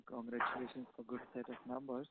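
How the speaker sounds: barely audible, far from the mic; faint, distant congratulations; very low voice. Real, not acted. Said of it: "Your voice is very low".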